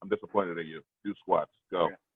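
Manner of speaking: acted deadpan monotone, no feeling at all. Describing someone who is monotone the whole time: imitating flat emotionless monotone. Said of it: "it's monotone the whole time".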